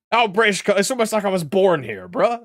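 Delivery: half-joking indignation at being called British; incredulous outburst. Real, not acted. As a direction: throw the question back, laughing it off. Mock-indignant echo of chat question.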